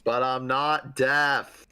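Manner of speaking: mild mock yell, drawn out; half-hearted slow yell back. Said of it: "I yell back".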